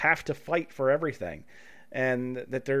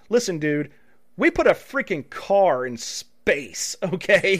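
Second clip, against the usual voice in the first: slow, louder scoffing brag; mock dismissive company; 3 semitones higher, 5 dB louder, slower than usual. Host imitating a smug company brushing off refunds, slow and scoffing. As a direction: scoff it out slowly like it's obvious.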